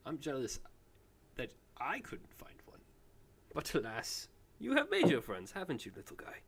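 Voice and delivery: gentle, fond talk to a small creature; soft doting voice. Acted. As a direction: coo at the little guy like a pet lover. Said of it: "and he goes".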